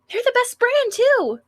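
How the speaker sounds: put-on high, whiny cute girl. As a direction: pout playfully like a sweet schoolgirl. Sayori's voice.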